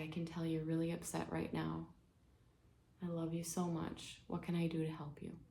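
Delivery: gentle, hushed comforting; tender reassurance. Acted. Mother offers upset daughter help on the plane, gently reassuring. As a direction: soothe a loved one, fading toward a whisper.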